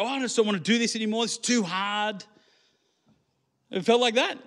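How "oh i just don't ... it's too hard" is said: retold whine. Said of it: "And I go".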